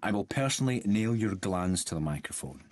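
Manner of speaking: low, controlled menace; contained anger, pitched low; quiet threat. Acted. Threatens the silly-voiced actor.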